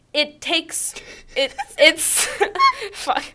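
breaking into laughter; cracking up. Real, not acted. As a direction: loses it mid-line. Breaks up mid-reading.

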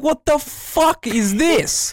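high, slow, disbelieving outrage; mock outrage, voice up high; incredulous. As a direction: stretch it out in utter disbelief. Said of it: "I'm like".

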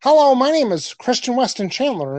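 mock the way he talks, slightly up; imitating Chris Chan. Doing Chris Chan's voice for his co-host, lightly voiced. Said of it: "he talks like this".

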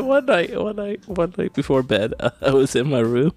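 trying not to laugh. Real, not acted. Retrying the line, laughing.

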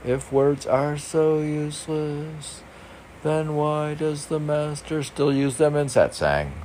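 reading in a put-on voice. Shown as a demonstration. Reading a book's question aloud to his partner, arch voice. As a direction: read the question out in character.

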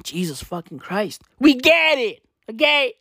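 ordinary talk, nothing marked

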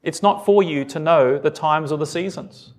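gently level, kindly quoted reply; polite, loving. Acted. Jesus kindly answering his disciples' question, mildly polite and loving. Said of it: "he says this very politely, very nicely, very lovingly".

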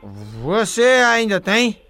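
put-on drunk voice. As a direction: play a sloppy drunk caller. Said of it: "o bebo rei desmantelado".

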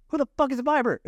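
re-enacted outraged outburst; angry confrontation. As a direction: demand an answer at a yell. Acted confrontation over her phone.

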